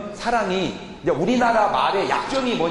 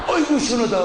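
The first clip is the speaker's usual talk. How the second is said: bath sigh; 3 semitones higher, faster than usual. Shown as a demonstration. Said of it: "이거 영어로 뭐라 그래?".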